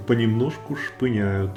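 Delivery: ordinary talk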